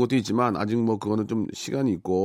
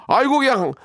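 out of breath after long list; breathless after reading in one breath; all in one breath; 11 semitones higher, 3 dB louder than usual. Real, not acted. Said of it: "한숨에 있기도 힘드네".

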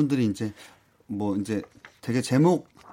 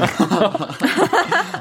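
sudden high laugh, caught out; embarrassed burst of laughter; 9 semitones higher, 6 dB louder than usual. Real, not acted. Caught not knowing the song.

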